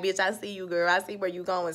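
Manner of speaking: softly voiced imagined thought; low-key watchful aside. Odell secretly watching Lynn, quiet knowing aside. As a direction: say it under your breath, as if secretly watching.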